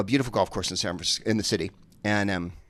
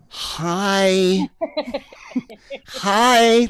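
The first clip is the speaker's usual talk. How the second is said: much higher, small "Hi"; timid golfers; 11 semitones higher, 6 dB louder than usual. Retold or imitated. Scared golfers greeting Debbie as they pass, high and meek. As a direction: squeak it out meekly. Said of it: "like that to Debbie".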